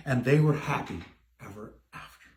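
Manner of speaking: fading fairytale ending. A narrator's reading. Narrator closes the story, fading out. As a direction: let the last words die away.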